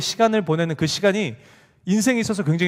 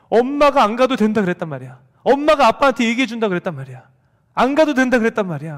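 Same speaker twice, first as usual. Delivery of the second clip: put-on crying child; 5 semitones higher, 5 dB louder than usual. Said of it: "하면서 엉엉 우는 거예요".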